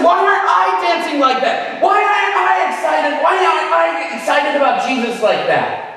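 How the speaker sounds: high, loud, urgent questioning; insistent repeat. Retold or imitated. Boy repeating his question to his mom: loud high shout. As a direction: demand an answer over the music.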